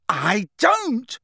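screamed. A narrator's reading. Boy screaming denial at his headmaster. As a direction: tear it from the throat. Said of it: "Harry screamed".

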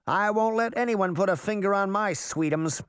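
put-on high-pitched cocky boy; mock-gallant boast. A narrator's reading. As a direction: swear to protect your sweetheart. Puck mock-gallantly boasts to his sweetheart.

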